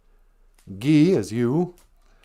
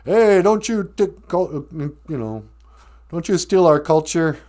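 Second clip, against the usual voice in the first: higher, louder scolding objection; indignant old activist; 5 semitones higher, 4 dB louder than usual. Acted. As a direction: call out a culture thief in a higher voice. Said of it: "some old aimer will see a hippie girl".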